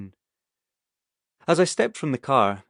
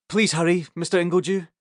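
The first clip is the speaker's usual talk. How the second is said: calling through the window; 7 semitones higher than usual. Acted. Freezing vet pleads at window.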